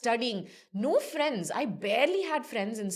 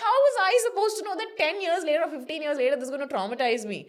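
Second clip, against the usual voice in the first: retold exasperation; 7 semitones higher, 6 dB louder than usual. Arguing with mom, retold.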